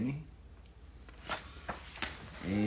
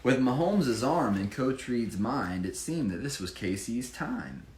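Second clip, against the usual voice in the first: lively rhyming read-aloud; bouncy storybook reading voice; story narration; slower than usual. Acted. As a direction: read it like a picture book for children. Reads rhyming Chiefs picture book.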